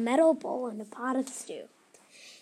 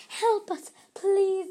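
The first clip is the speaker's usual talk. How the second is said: higher, shouted elf plea; 8 semitones higher, 3 dB louder, slower than usual. Acted. Elves finally shout to Felicia, high and desperate. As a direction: cry out for help. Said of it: "they finally shouted".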